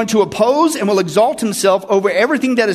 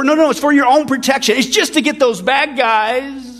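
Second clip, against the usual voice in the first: higher-pitched, lightly mimicked soothing excuse; mock reassurance; 5 semitones higher than usual. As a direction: placate them, drawing out the last words. Mimicking those who justify surveillance.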